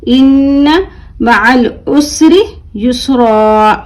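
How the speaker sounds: युसरा ending in a long open aa without N; single-zabar ending. Shown as a demonstration. Teacher modelling the stop on युसरा, long aa recitation. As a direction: recite slowly, stretching the last aa of युसरा. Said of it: "एक ज़बर के साथ पढ़ रहे हैं".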